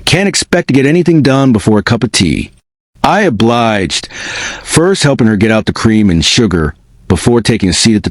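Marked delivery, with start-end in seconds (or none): 0.1-2.5 put-on a light, lilting Irish accent, a touch higher; lightly voiced old Irish woman, sing it a little; musical Irish accent. Old Irish landlady offering the boy tea, in a light lilting Irish accent. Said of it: "her Irish accent musical".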